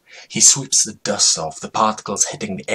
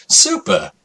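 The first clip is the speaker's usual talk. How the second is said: wailed cry; 11 semitones higher, 4 dB louder than usual. Acted. Lonely man cries super.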